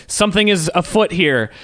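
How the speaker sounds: lightly hammed-up stage proclamation; rousing speech. Retelling the villain's speech on stage, mock rousing. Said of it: "gives this rousing speech".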